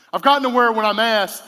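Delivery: rising preacher's emphasis. Real, not acted. Preacher building intensity.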